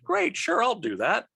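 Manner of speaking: high, eager yes; eager agreement. Retold or imitated. Hiding his confusion from the coordinator, eager high agreement.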